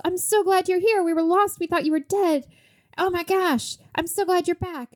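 high-pitched gushing welcome, put on; mock relief. Brother welcoming back the lost knight, mock relieved. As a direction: greet a long-lost brother, hammed up.

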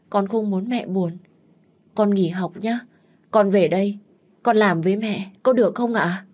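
cao giọng, nài nỉ tha thiết; cầu xin mẹ cho ở nhà; van xin. Acted. (em gái cao giọng van nài mẹ)

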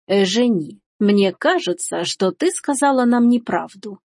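slow, measured reproach from a mother; stern. Acted. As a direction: say it slowly and sternly. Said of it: "Матушка глядела пристально и сурово". (сурово, с расстановкой)

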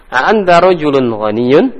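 rising question on ghaniyun; question intonation. Shown as a demonstration. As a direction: end on a clear rise. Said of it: "karena ada tanda tanya".

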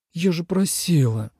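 mild reproach, lightly voiced; a gentle scolding; reproachful. A narrator's reading. Fox girl gently reproaching the dragon for her tail, reproachful. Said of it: "укоризненно сказала Хусюань".

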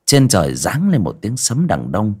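measured ghost-story narrator with dramatic pauses; storyteller setting a grim village scene; story narration. A narrator's reading. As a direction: narrate it phrase by phrase, pausing between.

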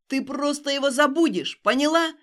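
loud, rising angry yell; furious shout. Acted. Stas shaking Alina, shouting she will forget. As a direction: force it into her.

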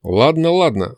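lightly placating, good-natured concession. A narrator's reading. Hero pacifying the angry demon, good-natured. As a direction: soothe her with an easy concession. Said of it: "заговорил я добродушно".

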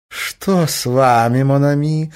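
friendly. A narrator's reading. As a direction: greet him like a dear friend. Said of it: "дружески протягивая ему свою руку". (дружески, протяжно)

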